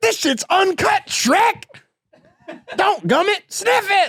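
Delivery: very high-pitched and slow. Asked to do the voice again real quick, doing Eddie Murphy's Donkey voice. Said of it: "Eddie Murphy voice... do it again real quick".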